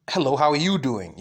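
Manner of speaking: weight on "you" then fall away; stress on you. Shown as a demonstration. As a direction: hit the word "you" in the greeting. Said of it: "emphasize just one word".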